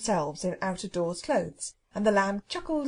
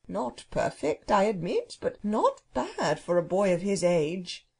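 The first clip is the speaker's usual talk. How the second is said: slow, measured faint praise; lofty bird grading a pupil; drawn-out, grudgingly approving phoenix; condescending phoenix. Acted. Phoenix judging the boy's verse.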